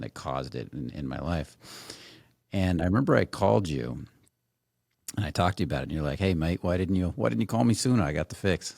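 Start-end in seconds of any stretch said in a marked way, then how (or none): 6.2-8.8 lively retold Australian accent; imitated Australian accent. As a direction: put on a friend's Australian accent. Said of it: "hopefully I did that accent good".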